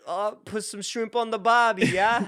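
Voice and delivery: loud, high mock Aussie; big, silly Australian impression; Australian accent. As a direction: belt out a hammed-up Australian accent. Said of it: "I would sit here like".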